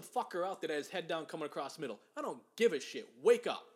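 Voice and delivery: real anger, bursting out on wake up; angry rant. Real, not acted. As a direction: vent about the suspension, building to a bark. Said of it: "really angry there".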